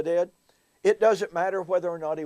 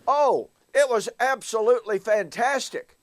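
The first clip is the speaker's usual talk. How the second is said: retold enthusiasm, pitched up; gushing delight; 4 semitones higher than usual. Preacher answers Bill about his sermon's response, gushing. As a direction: imitate a pleased preacher raving, a bit higher.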